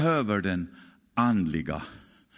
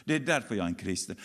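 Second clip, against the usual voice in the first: quicker repeat; 4 dB quieter, much faster than usual. Shown as a demonstration.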